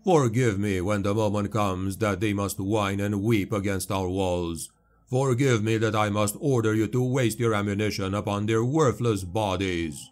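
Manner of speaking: preacher-like war oration; rousing speech. Acted. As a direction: stir the soldiers with disdain. Chaplain addresses troops.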